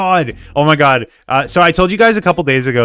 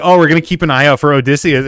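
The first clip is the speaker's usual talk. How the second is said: plain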